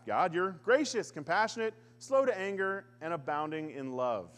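sarcastic half-hearted praise; grudging compliment. Acted. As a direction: praise God through clenched resentment. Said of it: "not really said in a complimenting way".

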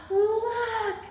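gasp, then a high, drawn-out cry; amazed discovery. Acted. Abigail showing her friends the stars, amazed. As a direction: gasp and point out a marvel.

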